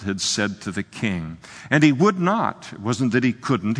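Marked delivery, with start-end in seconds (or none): 1.7-2.7 would lifted high and hit hard; stress on would. Real, not acted. Preacher stressing the servant's refusal, would hit hard. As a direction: lean on would.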